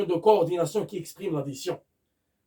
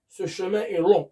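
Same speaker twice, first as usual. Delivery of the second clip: "Ce chemin est long" read slowly, each word spaced out; slow dictation; much slower than usual. Shown as a demonstration. Teacher repeating the example slowly for students to copy. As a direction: spell it out slowly for the class, landing on "long". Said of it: "par exemple".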